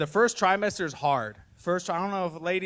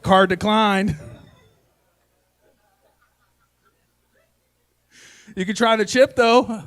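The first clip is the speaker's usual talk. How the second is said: louder, deadpan machine voice; mock card machine; 5 semitones higher, 9 dB louder, slower than usual. Dad clenches to block his son, mock card-reader voice. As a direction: announce it like a payment terminal. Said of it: "I was like".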